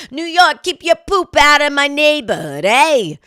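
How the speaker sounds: loud, high mock yell at New York. Host yelling on behalf of Alabama towns, loud and high. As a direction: bellow it at New York like an angry neighbor. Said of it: "That's what it seems like some should, someone should be saying".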